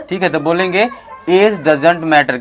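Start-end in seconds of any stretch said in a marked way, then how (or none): 1.3-2.4 slow, careful model sentence; slow model line. Shown as a demonstration. Teacher models the line slowly for the class. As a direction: say it slowly, word by word. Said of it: "क्या बोलेंगे?".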